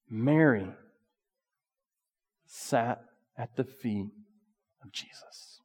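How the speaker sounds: slow, soft reverent telling; hushed reverence. Acted. Preacher lingers on Mary at Jesus' feet, slow hush. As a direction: let it fall to a hush. Preacher drops voice for key point.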